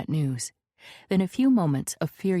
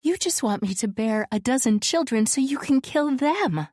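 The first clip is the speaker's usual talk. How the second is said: bitter accusation; 8 semitones higher, 3 dB louder than usual. A narrator's reading.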